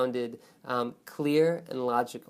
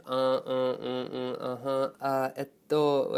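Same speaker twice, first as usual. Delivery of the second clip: string of stalling uhs, trailing along; hesitant vocal fillers; slower than usual. Shown as a demonstration. Teacher demonstrating fillers students should avoid, halting hesitation. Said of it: "vocal fillers, or repetitions".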